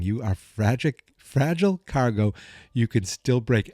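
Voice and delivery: lightly voiced Russian henchman; Russian accent. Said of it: "And the greatest thing".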